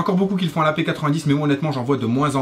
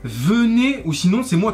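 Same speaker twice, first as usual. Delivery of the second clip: calling out; 7 semitones higher, 3 dB louder, slower than usual. Acted. Calling viewers to follow.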